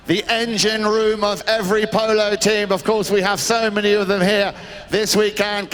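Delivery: projected public address to the crowd; rally polite applause for the grooms; event announcer. Real, not acted. Announcer asks crowd to applaud the grooms, public-address delivery.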